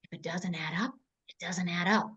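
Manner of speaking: low, breathy whisper; hushed aside to her husband. Retold or imitated. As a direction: lean in and whisper it like a secret. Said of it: "Like I always tell Scott".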